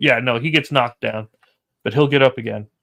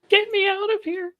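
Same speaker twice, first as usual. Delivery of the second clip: put-on high, panicky old woman; old lady voice. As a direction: squeal it like a frightened granny. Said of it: "That's my best old lady voice".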